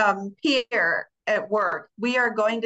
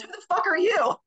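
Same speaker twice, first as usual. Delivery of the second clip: sharp, higher mock snap at a stranger; hostile retort; 9 semitones higher than usual. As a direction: fire it back like you're ready to fight. Julia snaps at stranger, retold.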